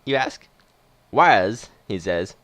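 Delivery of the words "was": put-on Western movie old-timer; lightly played Western accent. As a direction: answer with a Western twang. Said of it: "doing a sort of Western accent".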